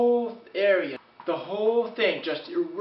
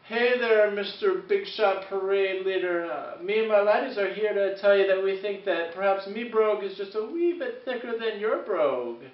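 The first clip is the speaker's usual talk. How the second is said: mock Irish brogue taunt; 2 semitones higher than usual. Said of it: "He was saying stuff like".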